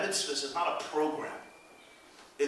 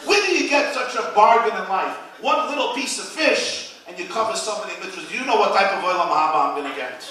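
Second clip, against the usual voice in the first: loud and pleased with himself; gloating; 2 semitones higher, 6 dB louder than usual. Retold or imitated. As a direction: brag about the bargain. Husband gloating, continued.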